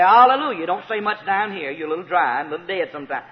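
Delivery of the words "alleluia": a bit louder and higher praise; expressive alleluia. Shown as a demonstration. Preacher urges dry church to praise, livelier alleluia. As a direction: show them how to say it. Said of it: "you'll have to say".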